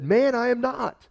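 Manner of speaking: high, forceful "Man, I am not"; insistent denial. Acted. Peter denying second accuser, indignant and high. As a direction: push back hard, indignant.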